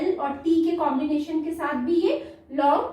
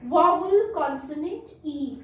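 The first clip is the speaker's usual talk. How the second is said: slow and clear. Shown as a demonstration. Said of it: "full form क्या है इसकी".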